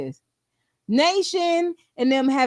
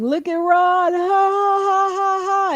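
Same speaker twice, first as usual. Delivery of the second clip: higher, hammed-up mocking laughter; 6 semitones higher, 3 dB louder than usual. Nation laughing at Ron, mock laugh. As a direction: imitate someone laughing at Ron. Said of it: "It was like".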